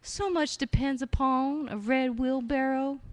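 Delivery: high, airy fairy voice. Shown as a demonstration. Poet reciting Williams, airy fairy voice. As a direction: breathe it out from the top of the lungs. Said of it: "put on the fairy voice and try to breathe out of the top of my lungs".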